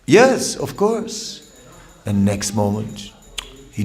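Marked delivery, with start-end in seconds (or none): 0.0-1.4 eager agreement. Retold or imitated. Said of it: "he said".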